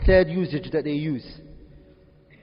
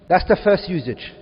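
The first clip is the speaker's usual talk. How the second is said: "That's the first usage" said again, much louder and firmer; emphatic repeat; 4 dB louder than usual. Shown as a demonstration. Teacher repeating the point louder to the class. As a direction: drive the point home, louder. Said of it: "Are we all together?".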